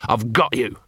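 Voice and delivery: panting. Acted. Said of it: "Vimes panted".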